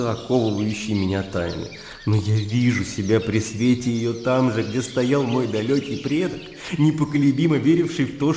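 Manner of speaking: impassioned debater, mildly worked up; heated argument. Acted. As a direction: press the argument with fervour. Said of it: "продолжал горячиться".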